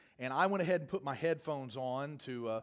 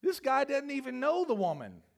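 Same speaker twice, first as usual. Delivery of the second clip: laughing disbelief; 10 semitones higher, 4 dB louder than usual. Real, not acted. Laughing at absurd story.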